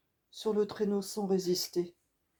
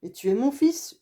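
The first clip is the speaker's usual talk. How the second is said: higher, louder exasperated shout; yelling; 6 semitones higher, 6 dB louder than usual. Acted. Hunter at the end of his nerves yells at the boy, loud. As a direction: shout at him, nerves gone. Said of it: "hurle le chasseur à bout de nerfs".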